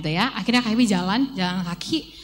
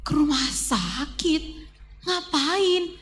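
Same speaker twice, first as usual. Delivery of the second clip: slow, rising disbelief; a startled ke rumah sakit asked slowly; shocked question; 5 semitones higher, 4 dB quieter, much slower than usual. Retold or imitated. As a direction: caught off guard, then high and puzzled. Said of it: "Terus K P kaget".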